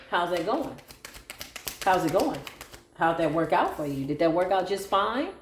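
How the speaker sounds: mock-innocent sarcasm; sarcastically facetious taunt; sarcastic. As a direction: ask it with fake sweetness, needling. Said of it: "I'm being very sarcastically facetious".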